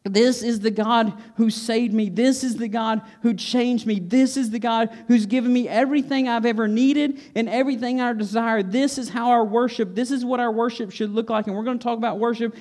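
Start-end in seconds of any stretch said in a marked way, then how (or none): 0.0-8.6 mildly raised, fervent testimony; preacher voicing a thankful outcry; crying out. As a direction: declare it in grateful praise, punching each "This". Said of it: "and he cries out".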